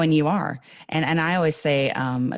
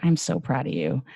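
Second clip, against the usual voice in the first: level, heartfelt praise at usual pitch; direct, sincere. Shown as a demonstration. Speaker showing praise delivered with direct love, sincere. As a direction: say it straight to them, meaning it. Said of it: "look 'em in the eye".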